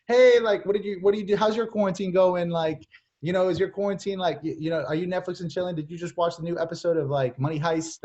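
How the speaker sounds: high, gushing small talk, easing down gradually; mock chatty catch-up. Coach mimics rambling catch-up call to avoid, mock chatty. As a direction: open high and loud, then ramble on.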